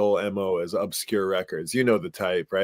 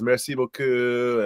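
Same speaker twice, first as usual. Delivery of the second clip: put-on French accent; slower than usual. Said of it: "he always says".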